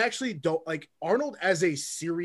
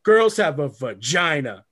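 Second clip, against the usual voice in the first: Arnold impression; 7 dB louder, slower than usual. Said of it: "And the guy's like".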